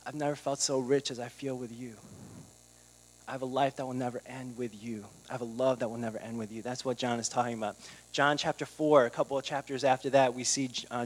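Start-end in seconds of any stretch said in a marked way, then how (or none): 0.0-6.6 sincere worship. Retold or imitated. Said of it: "we sing songs like".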